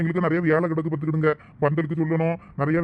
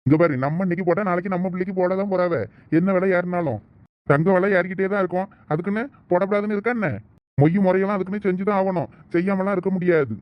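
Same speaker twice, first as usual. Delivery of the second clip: insistent, slightly raised voice; raised-voice scolding; 2 semitones higher than usual. Acted. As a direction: argue it out with mild irritation. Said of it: "சரி, சரி, கத்தாதீங்க".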